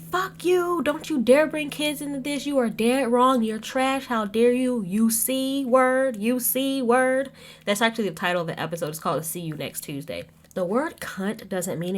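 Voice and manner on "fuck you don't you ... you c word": high, loud furious outburst, slowing on the last insults; exploding at her. Retold or imitated. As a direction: blow up at her, screaming high and drawing out the insults. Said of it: "Teresa exploded".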